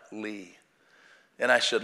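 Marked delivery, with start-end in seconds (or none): 0.1-0.6 a single name squeezed out through tears, much softer; a man too choked up to speak, finally giving his name. Retold or imitated. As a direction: choke the name out, barely voiced. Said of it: "he choked out".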